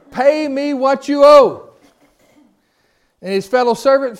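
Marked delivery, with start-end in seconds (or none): 0.1-1.7 slow, much higher and louder threatening demand; acted-out demand. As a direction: lean in and menace him, word by word. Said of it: "You wanna act this out a little bit".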